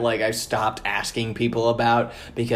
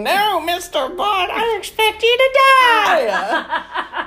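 slow, very high cartoon villain; 4 dB louder, much slower than usual. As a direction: drag it out like a Bond villain, laughing. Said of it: "I sound like a villain".

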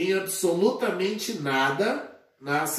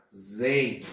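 syllable by syllable; 5 semitones lower than usual. Shown as a demonstration. Teacher breaking armazém down for students, syllable by syllable. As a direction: give each syllable of "armazém" on its own. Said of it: "dividimos em sílabas".

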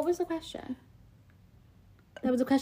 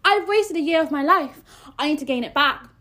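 worked-up, emphatic complaint; emotional; 3 semitones higher, 4 dB louder than usual. Real, not acted. Ranting to a friend about a lost year, emotional. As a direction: plead for the lost year back. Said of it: "I'm getting emotional".

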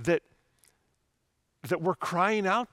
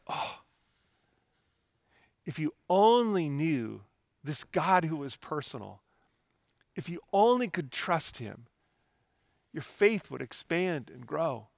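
gentle sigh into an earnest plea; Jesus, compassionate. Acted. Imagined Jesus to his followers, compassionate. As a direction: plead kindly, without any scolding. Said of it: "with compassion and grace and love".

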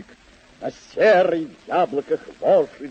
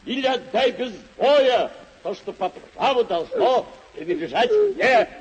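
challenge; 3 semitones higher than usual. Acted. Knight challenges the rider.

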